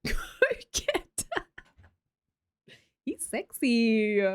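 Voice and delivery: mock Borat accent.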